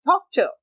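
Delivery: doctor with a soft English d and t. Shown as a demonstration. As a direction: keep doctor light on the tongue. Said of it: "ड को soft करो". (doctor में नरम अंग्रेज़ी ड)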